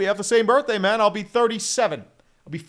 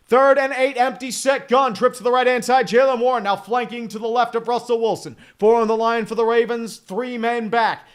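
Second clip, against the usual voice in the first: louder announcer call building to the throw; play-by-play; 4 dB louder than usual. Acted. Streamer announcing third down to chat, building announcer call. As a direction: build tension through the snap like a broadcaster.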